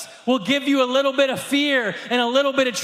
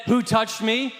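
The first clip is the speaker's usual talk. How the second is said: a hint of annoyance, lower; mildly irritated, demanding who did it; angry Jesus; 3 semitones lower than usual. Preacher imagines Jesus asking crossly, mild anger. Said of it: "well, he's angry".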